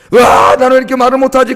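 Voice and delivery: loud acted cry of self-reproach; loud lament. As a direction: wail it out as a mock complaint. Acted self-pitying lament in sermon. (큰 소리로 한탄하듯)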